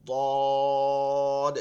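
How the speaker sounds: দদ spoken loud with a bounce on the final দ; bounced letter. Shown as a demonstration. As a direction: push দদ out with a knock. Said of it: "সদের মতন ধাক্কা দিব". (দদ, শেষে ধাক্কা দিয়ে)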